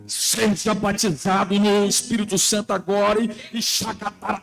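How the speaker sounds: praying in tongues. Retold or imitated. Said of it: "e desse jeito".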